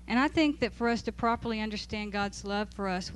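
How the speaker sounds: ordinary talk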